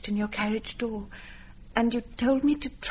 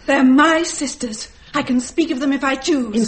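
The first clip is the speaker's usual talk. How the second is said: defiant insistence; 3 semitones higher, 10 dB louder than usual. Acted. To the grandmother who forbids the sisters' names, loud and defiant. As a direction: stand your ground, voice raised.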